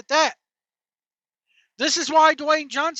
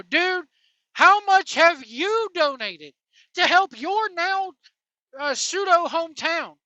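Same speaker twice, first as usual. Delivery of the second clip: higher, slow, pointed challenge; mock challenge; 5 semitones higher, 3 dB louder, slower than usual. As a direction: jab back at the rich donor, drawn out. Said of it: "point the finger right back at you and go".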